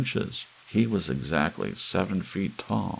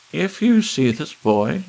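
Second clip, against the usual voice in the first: much higher and louder alarmed announcement; urgent warning; 11 semitones higher, 10 dB louder than usual. Acted. Ballerina warning viewers, high and loud. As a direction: sound the alarm. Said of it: "said the ballerina".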